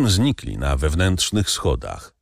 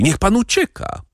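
even higher, rising plea, „pan” lifted; urgent call; 12 semitones higher than usual. A narrator's reading. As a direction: plead with him to run. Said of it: "zawołała panna Darmilly". (wyższe, błagalne wołanie z „pan” uniesionym)

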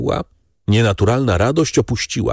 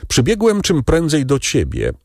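earnest friend, lightly raised voice; Beauchamp's voice; 11 semitones higher than usual. Acted. Beauchamp tells Albert the truth, earnest and kind. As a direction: gently lay out the hard truth.

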